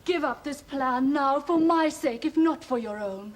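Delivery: pleading for a loved one's sake. Acted. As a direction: implore someone to change their mind. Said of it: "like a woman pleading for her lover".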